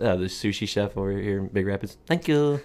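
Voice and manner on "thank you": high mock Asian accent; brief imitation of an Asian accent. Imitating a sushi chef's thanks, put-on Asian accent. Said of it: "doing Asian accents".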